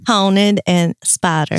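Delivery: slow mocking Carolina drawl; imitated Carolina accent. Co-host making fun of host's words, slow mock Carolina accent. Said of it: "She makes fun of that".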